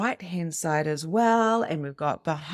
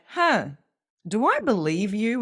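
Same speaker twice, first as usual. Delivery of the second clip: a higher, doubtful "huh" then a wary question; suspicious doubt; 4 semitones higher, 3 dB louder than usual. Pretend. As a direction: question the compliment as if it can't be true. Imagined doubter answers a compliment.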